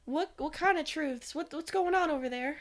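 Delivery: put-on slipping into a Southern accent. Player's character questions the distant voice, accidental Southern accent. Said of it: "do I s-, randomly turn southern".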